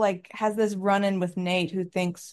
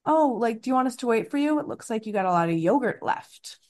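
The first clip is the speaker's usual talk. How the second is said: snide Blair line; 5 semitones higher, faster than usual. Retold or imitated. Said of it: "Blair going".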